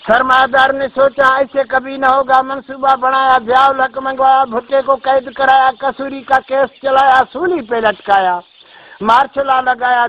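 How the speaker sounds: rhythmic chanted verse, each line landing on its rhyme; poem recitation. Acted. A poet recites Pakistan's political history to listeners, in rhythmic verse. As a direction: recite it like a folk poet before a crowd.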